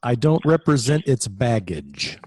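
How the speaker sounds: slow and dismissive; dry snooty agent. Acted. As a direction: look down on the baggage.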